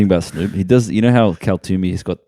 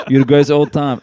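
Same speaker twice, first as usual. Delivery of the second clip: Impression of a rapper; 6 semitones higher than usual. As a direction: imitate the rapper, with a laugh. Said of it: "You know how he talks like that?".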